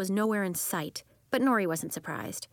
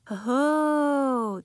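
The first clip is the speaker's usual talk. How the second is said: higher, louder oh; realizing; 6 semitones higher, 6 dB louder than usual. Acted. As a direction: realize it suddenly.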